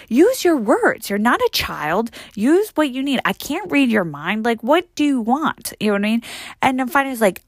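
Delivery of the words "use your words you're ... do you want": slow, emphatic telling-off; exasperated scolding. Retold or imitated. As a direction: scold a grown-up like a child, drawing the words out. Acted scolding of rude stranger.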